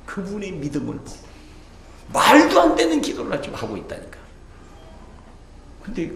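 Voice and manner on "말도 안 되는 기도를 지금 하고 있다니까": high, laughing exclamation. Real, not acted. Pastor laughing to the church about the absurd prayer. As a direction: laugh at how absurd it was.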